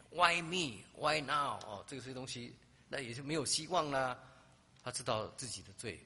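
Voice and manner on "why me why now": high, loud complaining cry; bitter complaint. Retold or imitated. The injured girl complaining about her fate, high and loud. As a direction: throw the questions out in protest.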